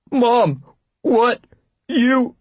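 high, stammering shocked gasp; shocked horror. Pretend. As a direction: stutter it out in mock horror. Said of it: "her interpretation of shock and horror".

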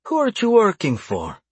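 high-pitched, commanding demand falling at the end; harsh command. A narrator's reading. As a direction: demand an answer with a ring of command. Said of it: "harsh ring of command".

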